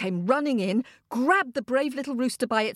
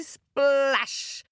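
splash; 3 semitones higher than usual. A narrator's reading. Bird hits the water.

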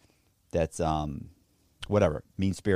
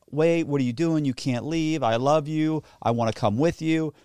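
higher, lightly mocking plea; imitated pleading girlfriend; 5 semitones higher than usual. Girlfriend begging him not to leave, mock pleading. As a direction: lightly mimic her begging to come along. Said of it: "And she says".

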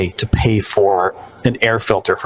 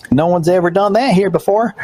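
higher, mock-astonished clerk; amazed cashier; 8 semitones higher than usual. Retelling a clerk amazed by Apple Pay, hammed-up wonder. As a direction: play the stunned small-town clerk.

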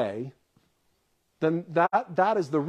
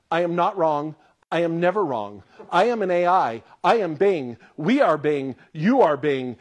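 robotic AI boast; 3 dB louder than usual. Retold or imitated. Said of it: "It literally said that".

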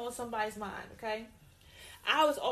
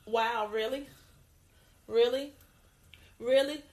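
incredulous; 4 dB louder than usual. Real, not acted. Disbelief at Rocky.

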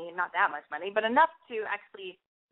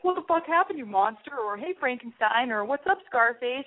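mock jeering, pitched up at the start; rude guy; 4 semitones higher than usual. Abrasive guy taunting her about a scar, rudely. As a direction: act out an abrasive jerk's taunts. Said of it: "rude about it and be like".

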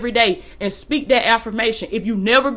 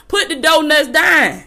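raised, higher scolding push; fussing; 5 semitones higher than usual. Real, not acted. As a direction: get on them like a preacher scolding. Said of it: "I'm not fussing at anybody".

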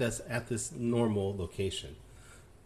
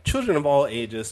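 ringmaster; 3 semitones higher, 9 dB louder than usual. Acted. Podcast opening announcer intro.

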